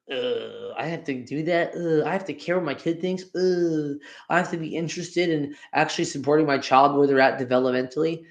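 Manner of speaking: groaning, put-upon complaint; mock reluctant parent. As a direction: groan each "ugh" like a burdened parent.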